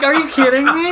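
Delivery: exasperated and cracking up; high laughing are you kidding me; laughing disbelief. Retold or imitated. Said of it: "I'm like".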